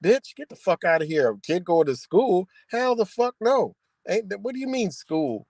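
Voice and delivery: high, slowed mock disbelief; lightly hammed-up outrage; incredulous. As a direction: act scandalized at the very idea. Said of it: "And I'm like".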